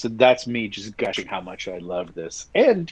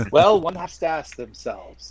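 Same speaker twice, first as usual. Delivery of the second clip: rabbi; 5 semitones higher than usual. Pretend. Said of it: "'Cause rabbis always ask questions".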